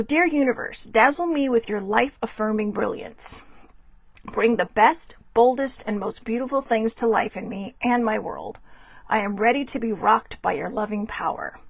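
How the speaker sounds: measured read-aloud, pausing between phrases; slow reading. Real, not acted. Card reader reading slowly so viewers can write it down. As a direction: read it out slowly for note-takers. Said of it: "I'll read it slow".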